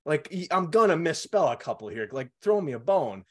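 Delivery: put-on retelling a childhood plea with lifted, insistent voice; exasperated kid pleading. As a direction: beg dad to let you off, half mock.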